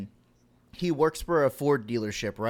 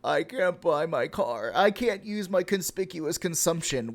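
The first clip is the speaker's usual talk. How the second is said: mock crybaby whine; 2 semitones higher than usual. Streamer mocks his own complaining with a mock crybaby whine. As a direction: whine like a spoiled kid who can't get a toy. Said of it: "I'm just basically crying about".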